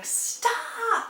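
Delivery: high, drawn-out mock scream; imitated scream, held back in loudness; retold scream. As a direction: cry it out high without real volume. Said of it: "is just screaming".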